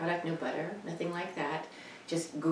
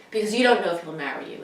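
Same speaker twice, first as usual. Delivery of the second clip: fast, louder mock mother; mother's retort; 2 semitones higher, 7 dB louder, faster than usual. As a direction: rattle it off like a worried mother. Mother's replies retold.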